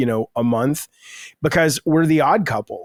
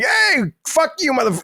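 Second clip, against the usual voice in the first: lightly hammed-up angry comeback; mock brash insult; 13 semitones higher than usual. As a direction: play a rude, hot-headed guy, half in jest. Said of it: "there's a lot more like".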